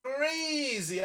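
hammed-up wounded disbelief, drawn out slowly; slow mock-offended whine; mock hurt. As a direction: pretend to be deeply offended. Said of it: "Haru says, "I don't like it".

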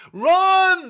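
high, loud panicked yell; all-out shriek of Run!; scream. Acted. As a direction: scream it to make everyone run. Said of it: "they all screamed at once".

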